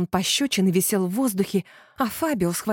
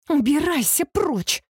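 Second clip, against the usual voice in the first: higher, slow, shouted order to leave; shouting; 8 semitones higher, slower than usual. A narrator's reading. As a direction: yell him out of the kitchen. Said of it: "закричала я". (громко и медленно, с криком)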